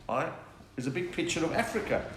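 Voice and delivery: ordinary talk, nothing marked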